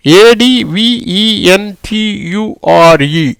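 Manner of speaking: slow, letter-by-letter spelling. Shown as a demonstration. Teacher reads the next word to the class, spelling slowly. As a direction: spell it slowly, each letter set apart.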